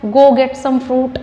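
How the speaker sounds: very slow, deliberate example; slow model sentence. Shown as a demonstration. Teacher giving an example sentence, slowly. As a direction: say it slowly for the class. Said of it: "fruit ही बोलना है".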